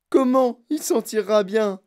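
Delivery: aigu et fort, outré; s'étrangler d'indignation; suffoqué. Acted. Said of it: "suffoqua madame Gloop". (la mère suffoque d'indignation, aigu)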